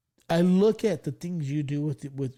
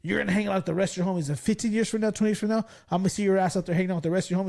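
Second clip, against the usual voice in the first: fast, higher retold tirade; lecturing angry teacher; 4 semitones higher, much faster than usual. Teacher warns class clown about his future, scolding. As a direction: imitate a teacher predicting a student's failure. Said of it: "He did the whole stand and deliver thing".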